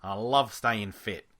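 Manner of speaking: put-on a casual stab at a New Zealand accent. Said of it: "that's more of a New Zealand accent".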